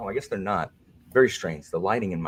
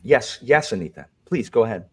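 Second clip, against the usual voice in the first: prim moderator voice; 3 semitones higher, 4 dB louder than usual. Pretend. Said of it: "toned down Alan".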